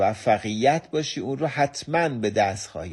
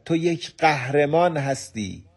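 raised call with "قهرمان" stressed; mild mock shout; 4 semitones higher than usual. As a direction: call it out to the mountain, proudly. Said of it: "با صدای بلند فریاد زد". (فریاد ملایم و پرغرور «تو یک قهرمان هستی!»)

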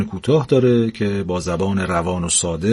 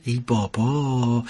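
slow, softer drawn-out sigh; sighing old wife; 6 dB quieter, much slower than usual. Acted. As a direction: let it sag with a weary sigh. Old wife sighs dismissively. (آه کشیدهٔ آرام و خسته)

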